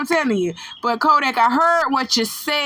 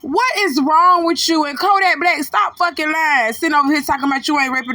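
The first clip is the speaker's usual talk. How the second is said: raised-pitch telling-off; indignant scolding; 4 semitones higher than usual. Real, not acted. Commentator accusing the rapper of lying, indignant higher-pitched scolding. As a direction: take him to task, voice pitched up.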